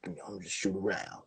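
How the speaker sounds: lazy mumble. Retold or imitated. Casual player brushing off the game, lazy fading mumble. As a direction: shrug it off like it doesn't matter. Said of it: "You can just".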